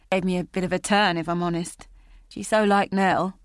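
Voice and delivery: lightly voiced crude man, suddenly friendly; a hint of an oily old acquaintance rambling; chatty Robbie. Robbie recognising Julia and chatting her up, falsely friendly.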